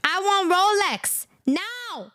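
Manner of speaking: slow, insistent mock-accented demand; mock Chinese accent. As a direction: stretch every word, demanding. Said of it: "Xi Jinping say".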